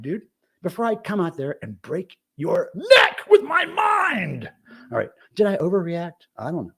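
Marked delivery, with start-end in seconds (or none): 0.0-4.5 mock shout. Imagined threat at neighbor.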